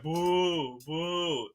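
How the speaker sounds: drawn-out mock boo; imitated booing. Fan mimicking home crowd, mock booing. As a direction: imitate a crowd's long boos. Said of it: "everybody's like".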